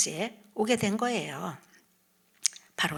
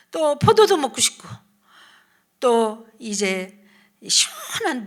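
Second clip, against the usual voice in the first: acted complaining; 3 semitones higher, 4 dB louder than usual. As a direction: complain and pine like the weary people, lightly hammed-up. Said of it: "모세 앞에서 불평하고".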